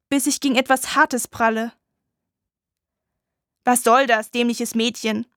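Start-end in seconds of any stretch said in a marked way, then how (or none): 3.6-5.3 annoyed. Acted. Boy snaps at the girl who bumps into him, irritated. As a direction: brush her off, annoyed. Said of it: "Eine genervte Stimme".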